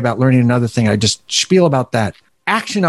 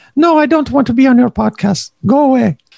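clumsy put-on Finnish accent, very high-pitched; 12 semitones higher than usual. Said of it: "I can't do a Finnish accent".

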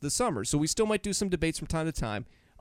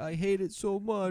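mock crying voice, pitched higher; 7 semitones higher than usual. Retelling how Nick complained while crying: imitating Nick crying. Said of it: "He started crying to me and saying".

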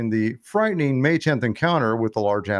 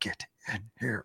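very quiet whisper-yell through gritted teeth; 2 semitones lower, 14 dB quieter than usual. Telling a camping story, the speaker imitates their mom calling the dad inside, whisper-yelling. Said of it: "quietly, like through her teeth, like yelling".

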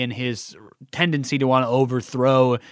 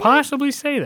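high, mock-innocent, wondering tone.

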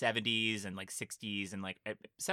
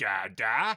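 louder put-on little monster voice; 7 dB louder than usual. Retelling a movie scene idea where little monsters look up: imitating baby monsters. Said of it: "they'd be like".

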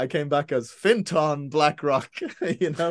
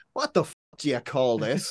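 bad put-on Northern Irish accent, swooping; 3 semitones lower than usual. Throwing the sword down in front of Dylan, shitty Northern Irish accent. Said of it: "I'll do a shitty Northern Ireland accent".

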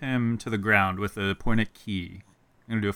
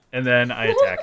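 ordinary talk, nothing marked

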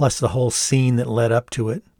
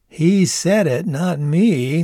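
chuckling, defensive, very slow and drawn out; 6 semitones higher, 3 dB louder than usual. The speaker defends himself after his girlfriend swats him: still chuckling while replying. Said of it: "though still chuckling".

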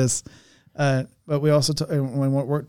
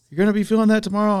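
teasing, pitched-up called-out yell; 8 semitones higher than usual. Retelling what Sterling yelled out while heading home: imitating Sterling yelling. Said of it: "Sterling yells out".

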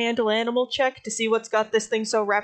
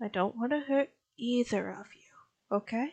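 soft, quiet, very calm, settled, soothing voice; 8 dB quieter than usual. Speaking gently to two birds, talking very calmly, quietly. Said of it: "she's just sort of talking very calmly".

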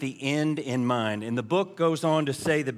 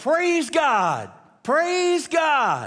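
put-on very high, very slow, swooping, drawn-out shout; 11 semitones higher, 5 dB louder than usual. Retelling a joke about a faithful old woman on her porch: imitating someone yelling. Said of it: "put her hands up and yell".

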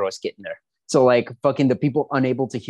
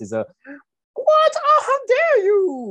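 very high-pitched, swooping put-on woman voice; 4 dB louder than usual. Discussing women's roles played by men, the speaker demos a high-pitched women voice. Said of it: "that's my women voice".

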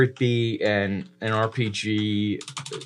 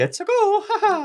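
cartoon Italian voice, much higher pitch; 3 dB louder than usual. Showing how a proper Mario voice should sound, Mario voice. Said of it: "doing a Mario voice where he'd be like".

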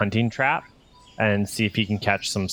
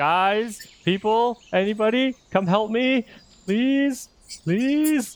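very high, very slow, drawn-out screaming; 13 semitones higher than usual. Acting out a character pointing and calling everyone over: screaming for help. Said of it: "Rocky's gonna start screaming".

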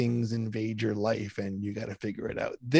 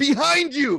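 mock very high, shrill, panicked, terrified shout; 5 dB louder than usual. Retelling Ken shouting a warning during a dragon fight in a game, retelling Ken's terrified yell. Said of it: "yells out".

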